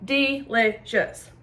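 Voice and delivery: slow, drawn-out savoring. Real, not acted. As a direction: stretch it out slowly, relishing it. Tasting the sauce.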